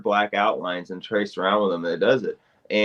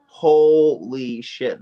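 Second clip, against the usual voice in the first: awed exclamation; 4 dB louder, much slower than usual. Real, not acted. Raving about show.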